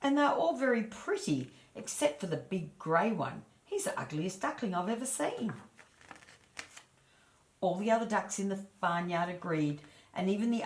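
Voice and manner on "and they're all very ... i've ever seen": put-on old duck judging the brood; snooty old duck. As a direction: praise them with a sniff. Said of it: "one of the old ducks said".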